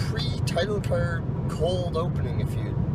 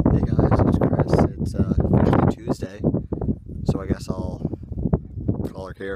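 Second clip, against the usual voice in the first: whispered sign-off; 6 semitones lower, 4 dB louder than usual. Real, not acted. Late night vlog sign-off.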